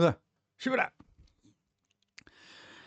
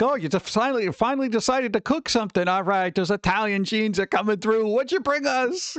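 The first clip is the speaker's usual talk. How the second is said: light mock-excited relatives, voiced higher; playing the delighted family, pitched up; Italian relatives; 5 semitones higher than usual. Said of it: "They'd be like".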